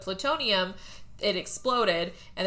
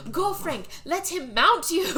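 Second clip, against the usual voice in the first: mock urging; 9 semitones higher than usual. Zachary urges Frank toward the shark, mock urging. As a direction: push Frank on in a raised voice. Acted urging in retold film.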